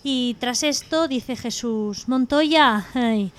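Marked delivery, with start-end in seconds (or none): 2.1-3.3 slow, drawn-out mock pleading call; calling Jesus. Jesus on the cross calls Montoya back, pleading. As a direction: call slowly after someone who is fleeing.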